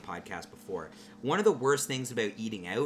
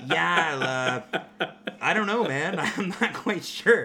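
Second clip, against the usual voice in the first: nervous unsure self; 6 semitones higher, 5 dB louder than usual. Retold or imitated.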